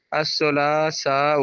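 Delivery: الثلاثاء drawn out slowly, each syllable given its full weight; slow model pronunciation. Shown as a demonstration. Teacher modelling the Arabic word الثلاثاء, slow and careful. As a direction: stretch out الثلاثاء carefully for the class to copy. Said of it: "تین سے منگل کو کیا بولا؟".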